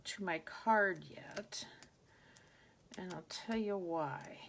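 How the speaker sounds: slow whispered aside; whispering. Real, not acted. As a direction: half-whisper while concentrating. Mutters while placing die.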